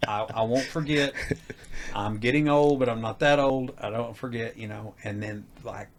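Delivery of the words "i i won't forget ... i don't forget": annoyed mock retort; exasperated. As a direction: brush off a nagging reminder. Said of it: "And I'm like".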